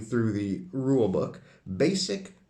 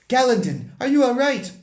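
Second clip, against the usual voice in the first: worried companion; 13 semitones higher, 9 dB louder than usual. Acted. Worried party member calls out.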